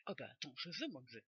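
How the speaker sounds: a playful Marseille twang; accent du sud taquin; southern French accent. Pretend. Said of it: "J'adore l'accent du sud".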